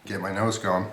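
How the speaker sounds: talking through a mouthful; words round a big bite; mouth full. Real, not acted. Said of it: "talk with my mouth full".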